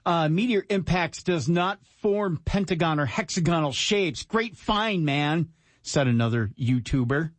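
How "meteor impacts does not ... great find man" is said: higher-pitched snarky read; snarky quote reading. Acted. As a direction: read the comment with added snark. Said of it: "You're adding the snark".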